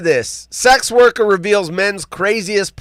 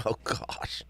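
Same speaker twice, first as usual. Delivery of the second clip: whispered laugh; 9 semitones lower, 20 dB quieter than usual. Real, not acted. Laughing after own joke.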